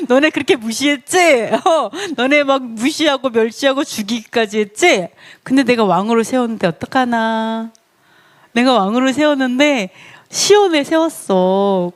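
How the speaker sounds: teasing taunt with stretched endings; mocking gloat. Preacher voicing God gloating at his scorners, mocking gloat. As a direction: rub it in, playfully scornful. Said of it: "막 웃으면서 비웃으셨어요".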